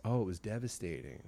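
softly repeated in sympathy; quiet, heartfelt retold echo; empathizing echo. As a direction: echo it back gently, as if feeling it. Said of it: "You could see him empathizing".

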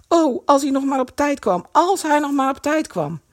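high, pleading exclamation; anxious urgency. A narrator's reading. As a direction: voice rising in desperate worry. Kees desperate to arrive in time.

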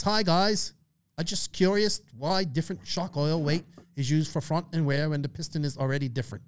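put-on a weak, half-hearted Australian accent; reading a listener's question in a bad Australian accent; butchered Australian accent. Host reading an Australian listener's question, bad Australian accent. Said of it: "I butchered the Australian accent".

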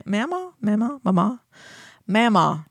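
mama said with different vowels and tunes, some rising, some falling; trying out mama. Shown as a demonstration. Host trying out mama for a Southern co-host. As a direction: test how mama sounds, several ways. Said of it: "Does that sound right".

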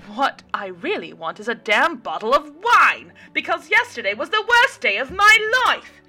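loud, high, pleading shout; angry rant. A narrator's reading. Mary rants at waitress Diana, loud and high, begging. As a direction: beg and rage at once. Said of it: "followed her rant".

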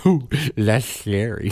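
put-on slow, lisped child; lisping boy again. Repeating the Kentucky boy's line, slow and lisped. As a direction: lightly lisp it like the boy. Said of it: "tiny little Kentucky boy".

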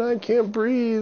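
very high, slow choking plea; panicked gasp. Acted. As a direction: gasp it out while drowning. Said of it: "he's going".

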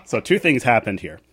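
high laugh carrying into the words. Real, not acted. Mother laughing as she starts her story.

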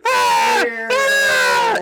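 high, loud screeching roar; mock monster roar. Godzilla playing with a plane, mock screeching roar. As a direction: screech like a giant movie lizard. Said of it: "it's just, it's going".

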